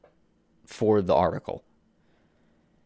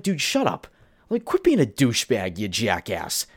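exasperated outburst. Real, not acted. Host snapping at the studio head, fed-up outburst. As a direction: snap it like you've had enough.

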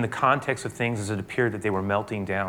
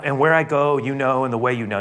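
raised loud proclamation; fervent preaching; 4 semitones higher, 5 dB louder than usual. Acted. Jesus telling disciples the way, loud and fervent. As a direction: press the words home loudly.

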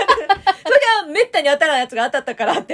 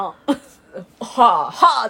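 limp acknowledging huh; 6 dB louder, much slower than usual. Retold or imitated. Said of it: "って言いながらもらった".

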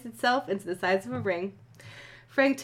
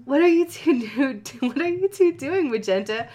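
put-on high girly Columbia voice; 5 semitones higher, 4 dB louder than usual.

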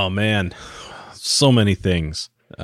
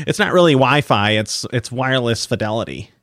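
annoying nerd voice. Retold or imitated. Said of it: "the voice that he was doing".

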